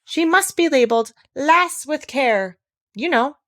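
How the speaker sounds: high, slow, gentle voice from afar; gentle distant voice labelling Alice. A narrator's reading. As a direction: speak it gently and slow, far off. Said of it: "a very gentle voice".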